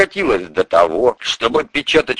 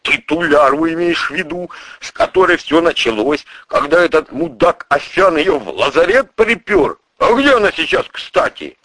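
lightly raised, rough questioning; boss voice; 6 semitones higher than usual. Acted. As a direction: boss digging for details. Boss asks.

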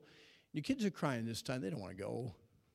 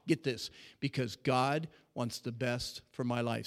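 normal talking voice

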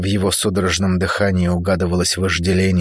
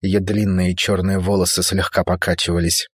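plain reading voice

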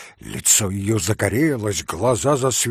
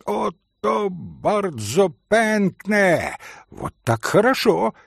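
shouting pan; 7 semitones higher, slower than usual. Acted. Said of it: "крикнул другой пан".

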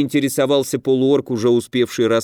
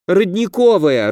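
a sharp, loud snap, pitched up; growled retort; 7 semitones higher, 4 dB louder than usual. A narrator's reading. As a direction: bite back at him. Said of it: "рыкнула девушка". (рыкнула громко и резко)

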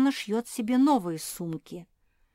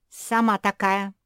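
a louder mock yell; squabbling shout; 8 dB louder than usual. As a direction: snap back loudly at the sister. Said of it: "завопила Куки".

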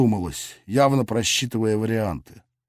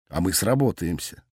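satisfied; 6 semitones lower, 5 dB quieter than usual. A narrator's reading. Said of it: "удовлетворённо решил я".

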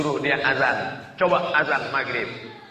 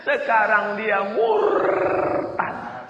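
slow grave reply; 6 semitones higher, much slower than usual. Retold or imitated.

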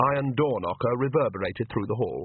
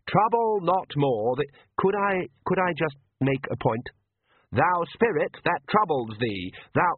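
hesitant priest; 6 semitones higher than usual. Acted. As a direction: stumble through the words read from a book. Priest keeps reciting.

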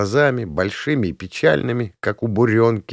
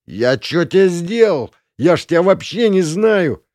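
whining protest; 9 semitones higher, 4 dB louder than usual. A narrator's reading. Beaten prince whines at his attacker, high and panicky. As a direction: plead your innocence, voice climbing.

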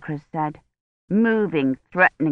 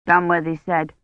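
plain reading voice

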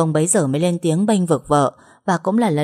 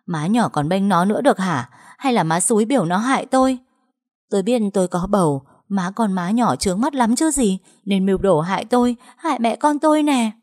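higher, sharp accusing voice; glaring accusation; 4 semitones higher, 4 dB louder than usual. Acted. Trâm lashing out at the stepmother, angry accusation. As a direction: turn on the stepmother. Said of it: "Chị Trâm trừng mắt".

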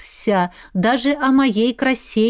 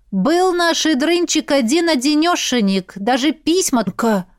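stunned; 5 semitones higher than usual. Acted. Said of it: "выдавил он потрясённо".

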